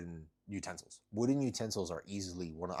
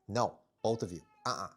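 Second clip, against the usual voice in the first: scolding the cats; 2 semitones higher, 5 dB louder than usual. Real, not acted. Stopping the cats begging.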